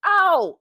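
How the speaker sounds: high, loud "oh" of pain; retold pained cry. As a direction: act out a startled yelp. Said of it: "and, like, freaking out".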